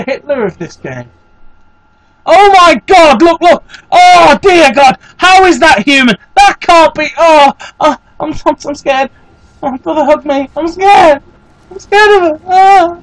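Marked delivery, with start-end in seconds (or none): 2.3-8.3 startled alarm. Real, not acted. Panicking at scary boss on screen. 8.5-13.0 hammed-up frightened whimper, higher; playing scared for laughs, pitched up; mock fear. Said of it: "I'm not being serious".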